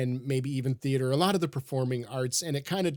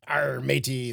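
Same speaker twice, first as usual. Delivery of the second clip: pirate voice; slower than usual. Retold or imitated. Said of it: "one particular British actor's version of a pirate".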